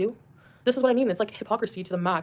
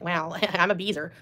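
mock smug act; slower than usual. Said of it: "trying to act like she has".

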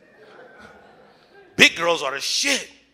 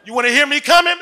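1 mock loud moan; 11 semitones higher, 9 dB louder than usual. Mimics loud sex moaning.

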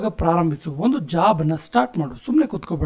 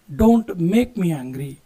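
slow repeat; 3 semitones lower, much slower than usual. Shown as a demonstration. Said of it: "ನನಗೆ ಸಿಟ್ಟು ತರಿಸ್ಬೇಡ".

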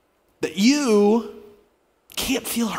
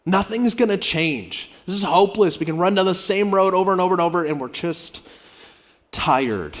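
weary giving up. Retold or imitated. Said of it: "who said".

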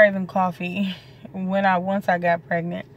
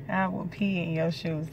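softer, calm restatement; softer aside to viewers; quiet repeat; 5 dB quieter than usual. Real, not acted.

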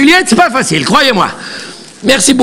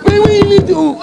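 Roméo squeezed by the balcony railing; high strained Roméo, throat squeezed by the railing; strangled Roméo; 9 semitones higher than usual. Acted. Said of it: "il parle comme ça".

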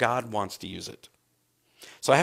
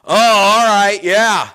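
very loud, raised holler; calling from afar; 6 semitones higher, 12 dB louder, slower than usual. Retold or imitated. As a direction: shout an acknowledgement down a long aisle. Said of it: "he says from a distance".

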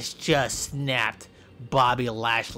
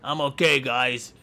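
tough wrestler voice; 4 semitones lower than usual. Pretend. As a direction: growl out a lightly voiced strongman boast. Voicing Bobby Lashley.

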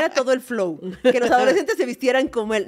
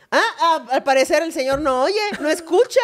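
indignación aguda imitada; reproche sarcástico; 4 semitones higher than usual. Retold or imitated. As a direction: finge comentar al aire, ofendida. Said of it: "es de las que dice". (imitación de reproche indirecto)

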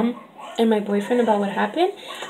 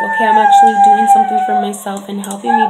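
imagined excitement; 8 dB louder, faster than usual. Pretend. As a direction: play your hopeful future self. Imagined happy self after treatment.

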